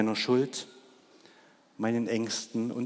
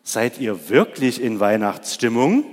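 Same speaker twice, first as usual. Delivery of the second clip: calling out again; 7 dB louder than usual. Real, not acted. Fragt die Kinder nach. (laute, lockende Nachfrage an die Kinder)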